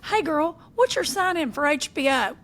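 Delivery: put-on high, perky old lady voice; eighty-nine-year-old mama. Telling a friend how Jace's mama called, in a high, perky voice. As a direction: chirp it up like a sprightly elderly lady. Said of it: "She calls the other day and goes".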